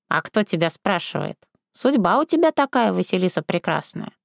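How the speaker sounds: lightly voiced old crone; old woman. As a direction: brush her objection aside.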